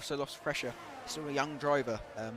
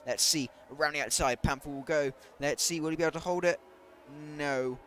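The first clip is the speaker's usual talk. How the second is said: excited; 6 dB louder than usual. Real, not acted. Calling a live overtake.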